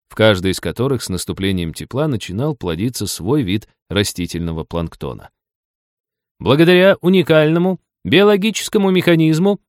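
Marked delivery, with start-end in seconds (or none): 6.4-9.6 high, loud, straining tour-guide shout; strained yelling. A narrator's reading. Tour guide on the shore outshouts the waterfall, straining. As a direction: yell over the roar of a waterfall. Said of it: "надрывно вопила стоящая на берегу экскурсовод".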